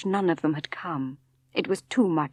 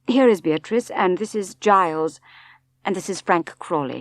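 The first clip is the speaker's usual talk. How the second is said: brisk introductions; 4 dB louder than usual. Acted. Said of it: "he said briskly".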